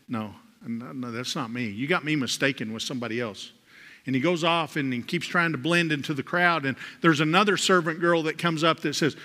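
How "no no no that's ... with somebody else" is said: quiet denial. Retold or imitated. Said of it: "and he says".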